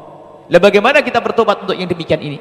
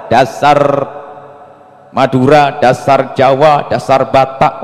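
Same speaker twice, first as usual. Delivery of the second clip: slow, contemptuous jeer at each tribe; scornful slur; 5 semitones lower, much slower than usual. Retold or imitated. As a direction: sneer it out like a proud bigot. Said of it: "menggunjingnya nggak sadar karena sombong". (ejekan sombong yang lambat)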